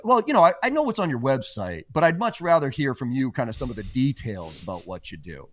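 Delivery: mock rep cop-out. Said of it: "Well, you know, John".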